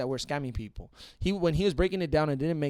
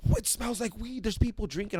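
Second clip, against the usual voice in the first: mock cop; 8 semitones higher than usual. Cop voiced suspicious.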